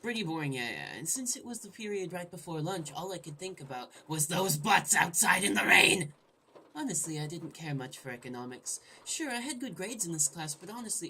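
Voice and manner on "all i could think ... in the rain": louder, gleeful punchline; hammed-up exclamation. Gamer reading a silly line from the game narration. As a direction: belt the line for laughs. Inserting butt jokes into narration.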